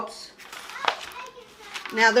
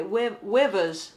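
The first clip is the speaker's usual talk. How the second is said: put-on British accent; slower than usual. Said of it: "how would they say?".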